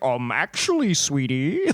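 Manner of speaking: a hint of a patronizing know-it-all; lightly voiced, talking down to someone; condescending mock voice. Mocking Bane as he lectures the town, lightly condescending. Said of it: "I was like".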